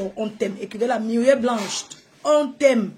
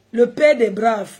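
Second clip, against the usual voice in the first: hype shout; 7 dB louder than usual. Real, not acted. Hyping a donor on live.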